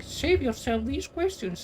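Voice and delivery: imitating her cocky tone, slowed; mock-snooty retelling of a put-down; mocking snarky quote. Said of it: "To get all cocky with me".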